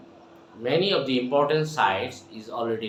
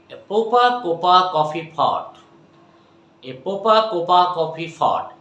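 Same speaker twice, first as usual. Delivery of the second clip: louder, lifted repetition; energetic drill; 4 semitones higher, 4 dB louder than usual. Shown as a demonstration. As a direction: keep the energy up. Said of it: "Okay, my dear".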